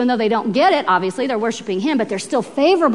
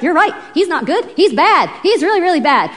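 raised-pitch agitated agreement; acted indignant chorus, pitched up; stirred-up crowd; 5 semitones higher, 3 dB louder than usual. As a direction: voice a crowd getting worked up. Acted stirred-up crowd turning on Paul.

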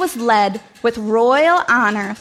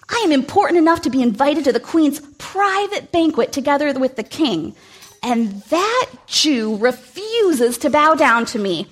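resentful Haman; 3 semitones higher than usual. Acted. Haman's angry inner rant.

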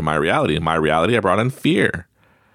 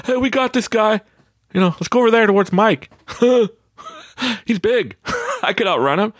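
put-on cocky kids; 13 semitones higher than usual. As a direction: brag about outrunning the big guy. Kids planning to outrun him.

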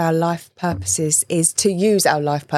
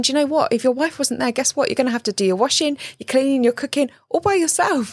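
higher, pointed lecture to a husband; wife setting her husband straight about chores, higher and pointed; telling him straight; 6 semitones higher, faster than usual. Pretend. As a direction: spell it out, a little fast and sharp.

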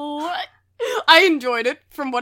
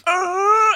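higher, louder comic "argh"; mock pained groan; 5 semitones higher, 6 dB louder than usual. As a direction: let out a quick cartoon groan of pain. Acting out a stomach ache.

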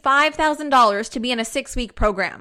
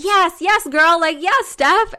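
gushing fan; 5 semitones higher, 4 dB louder, slower than usual. Retold or imitated. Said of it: "so many of you just be like".

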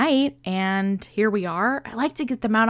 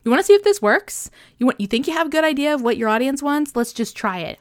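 excited self-pep talk; 5 semitones higher, faster than usual. Retold or imitated. Self-talk, egging herself on.

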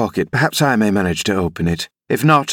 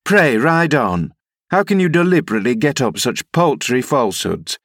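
mildly indignant, pitched up at first; indignant rebuke; 3 semitones higher than usual. Acted. Nurse rebuking the rider through the door, mildly indignant. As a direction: scold him through a door, starting high and easing down.

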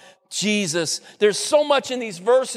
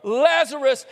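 crying out; 5 semitones higher than usual. Retold or imitated. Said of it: "cries out".

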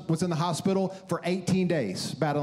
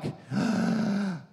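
exaggerated intake of breath; mock gasp; 2 semitones higher than usual. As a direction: gasp as if taken aback. Mock reaction to angry callers.

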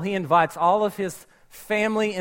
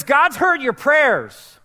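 slow, measured heavenly messenger; lightly voiced angel, slow and solemn; angel's voice; 4 semitones higher, much slower than usual. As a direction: announce it slowly like an angel from heaven. Angel speaks to Cornelius.

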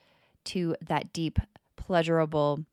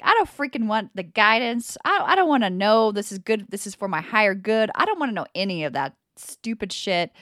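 louder, exasperated complaint; mock-annoyed tirade; frustrated rant; 3 semitones higher, 5 dB louder than usual. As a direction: vent like a stubborn kid. Retold frustrated outburst.

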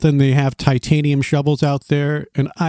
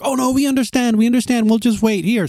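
higher, sweet understanding voice; sweet hikers; 7 semitones higher than usual. Retold or imitated. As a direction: mimic the girls kindly agreeing. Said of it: "they're like".

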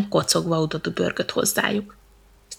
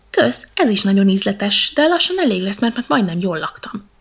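contented elephant; 6 dB louder than usual. Acted.

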